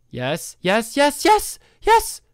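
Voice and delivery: building from plain to squealing yes; rising excitement. Real, not acted. NPC finally coming his way.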